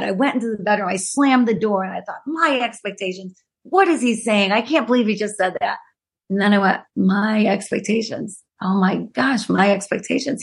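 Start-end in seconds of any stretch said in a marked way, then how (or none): 2.2-5.8 mildly huffy, replaying the indignation; retold indignant muttering. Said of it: "I was so mad". 6.9-10.4 dawning realization. Retold or imitated. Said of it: "He was absolutely right".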